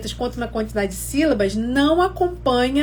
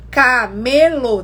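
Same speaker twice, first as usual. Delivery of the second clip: slow syllable count; 4 dB louder, much slower than usual. Shown as a demonstration. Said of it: "a gente vai contar quantas sílabas tem".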